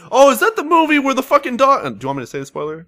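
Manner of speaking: mock friend blurting spoiler. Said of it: "he's like".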